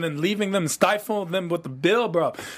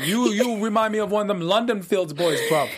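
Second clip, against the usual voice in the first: greets the hosts in a hammed-up London roadman accent; London roadman slang, played for laughs; put-on London roadman accent. Cohost greets the show in a put-on London roadman accent. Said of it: "he's gonna talk like that the entire show".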